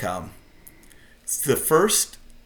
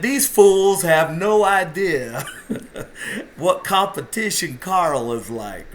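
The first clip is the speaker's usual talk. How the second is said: slow, higher, louder redneck twang; laughing through a redneck impression; kinda redneck voice; 6 semitones higher, 3 dB louder, slower than usual. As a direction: do your buddy's hick drawl, slow and high. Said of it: "his kinda redneck voice".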